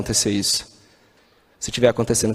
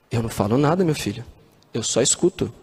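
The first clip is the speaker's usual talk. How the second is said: Mother Teresa; 4 semitones lower, 3 dB quieter than usual. Retold or imitated. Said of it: "Madre Teresa".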